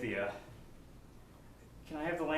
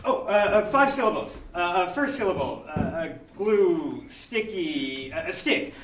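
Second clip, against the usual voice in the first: louder, flustered clue-giving; frantic charades; 6 dB louder than usual. Pretend. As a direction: scramble for clues. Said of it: "using only gestures".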